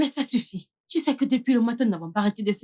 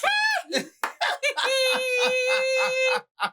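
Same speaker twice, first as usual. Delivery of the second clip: long, high-pitched delighted squeal; high squealing laugh; 12 semitones higher than usual. Real, not acted. Delighted at the greeting lesson.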